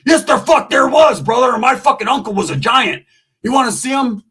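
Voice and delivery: loud, high, heated protest; indignant insistence. Acted. Roach defending his giant uncle, indignant.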